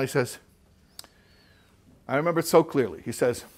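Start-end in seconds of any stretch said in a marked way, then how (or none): none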